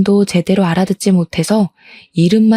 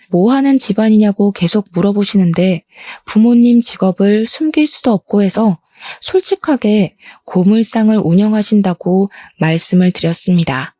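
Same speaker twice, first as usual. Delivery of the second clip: ordinary delivery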